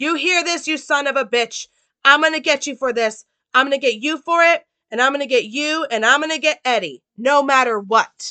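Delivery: all-out loud, high-pitched yelled outburst. Retelling a story, acting out a shot man yelling at someone, retelling a yell. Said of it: "he yells out".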